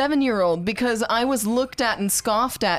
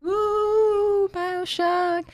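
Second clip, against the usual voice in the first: excited ooh; 12 semitones higher, much slower than usual. Real, not acted. Excited about the game pick.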